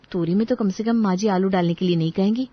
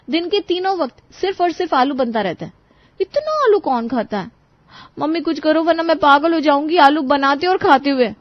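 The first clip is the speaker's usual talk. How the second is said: frustrated pleading; 6 semitones higher than usual. Acted. Daughter pleads with mother, frustrated.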